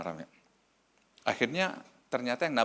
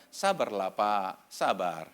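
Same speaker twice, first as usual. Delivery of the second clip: low, falling stalling tone; placating; 5 semitones lower, much slower than usual. Retold or imitated. Family stalls the pastor again on the phone, placating. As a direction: put him off, sinking low.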